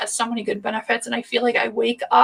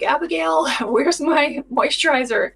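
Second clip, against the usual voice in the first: higher-pitched playful call to a daughter; mock calling-out; 4 semitones higher than usual. Mom calling her daughter about borrowed moisturizer, in mock exasperation. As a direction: imitate yourself calling out for missing things, laughing midway. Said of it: "I was always like".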